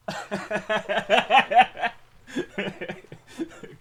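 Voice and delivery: high laughing burst; loud laugh. Real, not acted. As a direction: crack up at your own joke. Laughing at own joke.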